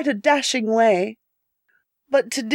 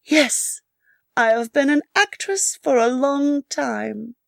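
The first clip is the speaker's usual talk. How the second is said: gentle; 3 semitones higher than usual. Acted. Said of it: "and said gently".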